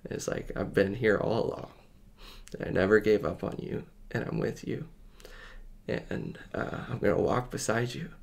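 gently reassure, barely raising the voice; tender reassurance. Retold or imitated. Voicing Jesus at the bedside to a new believer, tenderly.

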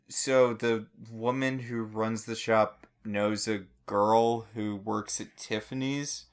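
ordinary talk, nothing marked

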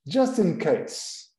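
just in case drawn out slowly; slow demo. Shown as a demonstration. Teacher modelling the phrase slowly for the students. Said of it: "No caso de".

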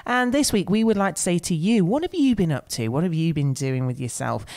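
a hint of a cheery local DJ; breezy radio presenter patter, lightly done. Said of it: "talk in some sort of local radio voice".

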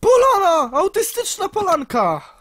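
high, loud excited cry; excited shout. Real, not acted. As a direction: shout it out in delight. Finds clearing, excited.

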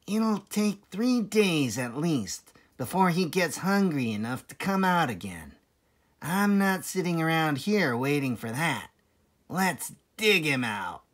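lightly voiced farmer; a hint of a gruff farmer; Bean. Bean deciding to dig, lightly voiced farmer. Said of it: "Then he said".

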